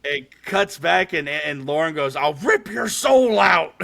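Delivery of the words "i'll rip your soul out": loud, high, drawn-out demon impression; imitated possessed threat. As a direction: shout it slowly like a possessed horror-movie sister. Retold possessed sister's threat.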